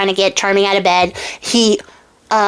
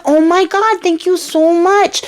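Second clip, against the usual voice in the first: much higher, gushing with relief; overjoyed thanks; 8 semitones higher, slower than usual. Acted. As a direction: gush your thanks, almost squealing. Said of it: "And Charming's like".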